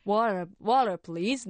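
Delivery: slow tourist English, spelling out "water"; English pronunciation attempt. Traveller abroad tries ordering water, careful English pronunciation. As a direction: labour over the English "water". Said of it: "の発音とか".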